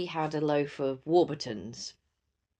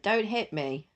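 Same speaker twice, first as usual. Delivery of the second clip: copying the words a little higher; daughter echoing; 7 semitones higher, slower than usual. Retold or imitated. Daughter repeating mum's words, slightly higher. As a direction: echo it back like a child. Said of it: "repeated it and went".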